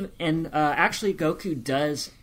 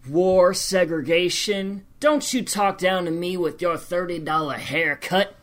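Southern twang; 3 semitones higher, 5 dB louder than usual. Retold or imitated. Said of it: "the twang".

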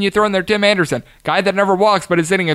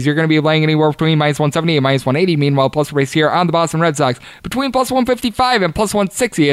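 fast auctioneer patter. Real, not acted. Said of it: "as I sound like an auctioneer going this fast".

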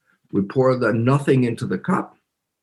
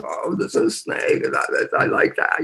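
lightly voiced little kid; delighted child; 6 semitones higher than usual. Kid repeating after biologist mother, delighted.

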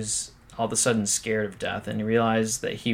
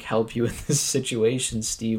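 incredulous rant; 3 semitones higher, 6 dB louder than usual. Retold or imitated. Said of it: "I'm like".

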